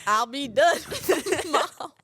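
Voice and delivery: put-on slow, laughing country accent; mock country accent. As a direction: imitate her friend's country twang. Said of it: "in the country accent".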